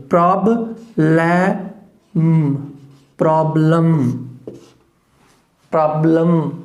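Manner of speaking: प्रॉब्लम drawn out, ending in a weak lum; schwa before M. Shown as a demonstration. Teacher demonstrates प्रॉब्लम, E pronounced as schwa. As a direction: stretch प्रॉब्लम, second vowel as uh, humming the M. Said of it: "ई जो है जब अ का sound देगा".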